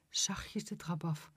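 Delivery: slow unvoiced whisper; hushed, slow whisper. A narrator's reading. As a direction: whisper it as if sneaking downstairs.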